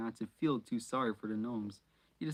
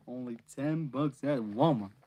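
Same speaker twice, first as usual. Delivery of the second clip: "Walmart" pushed out louder; louder retake; 5 dB louder than usual. Shown as a demonstration. Reader retaking her Walmart line, louder. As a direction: punch the line up.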